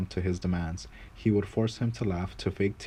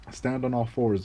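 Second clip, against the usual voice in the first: higher, bossy order to the servant; commanding lord; 4 semitones higher than usual. Acted. Lord ordering the pongo onto all fours, higher commanding voice. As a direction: bark it down at him like a master. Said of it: "the Lord would order him next".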